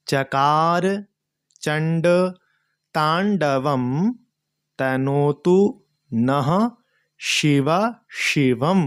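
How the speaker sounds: each word said slowly apart. Shown as a demonstration. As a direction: break the line into single words, spaced out. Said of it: "इस तरीके से चौथी line".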